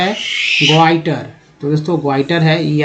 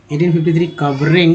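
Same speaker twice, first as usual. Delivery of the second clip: quick read; faster than usual. Shown as a demonstration. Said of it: "आईएनजी को इंग बोलते हैं".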